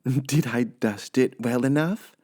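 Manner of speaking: high, slow and pleased; high housemaid musing to herself; high, sweet Amelia Bedelia voice. Acted. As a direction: play the cheerful literal maid. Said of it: "asked Amelia Bedelia".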